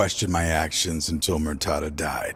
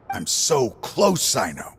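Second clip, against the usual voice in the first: desperate; 5 semitones higher than usual. Acted. Old partner tells Cyno he is nearly there, desperate. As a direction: drag it out, longing.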